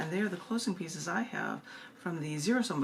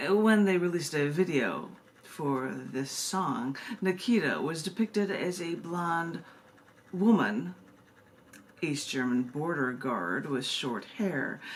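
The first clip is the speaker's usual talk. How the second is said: a hint of a louder, declaiming poem voice; poem reading; 3 dB louder than usual. Poet reading her poem to the audience, a lightly louder recital. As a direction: read it like a poet taking the stage, lightly.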